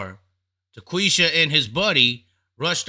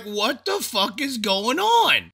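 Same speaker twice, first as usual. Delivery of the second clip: slow stunned disbelief; 6 semitones higher, slower than usual. Retold or imitated. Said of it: "I'm like".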